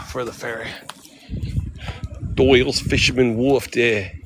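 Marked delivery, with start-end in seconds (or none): 2.3-4.2 playful attempt at a Boston-sounding accent. Tourist playfully announcing the wharf, Boston-like accent. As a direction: call it out with dropped Boston r's. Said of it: "No, that's Boston again".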